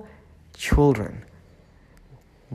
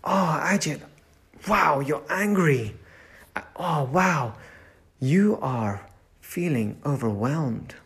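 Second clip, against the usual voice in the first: softer, kindly naming your own feelings; gentle self-talk; 4 dB quieter, slower than usual. Shown as a demonstration. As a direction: speak to yourself like a caring friend. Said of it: "we say it to ourselves".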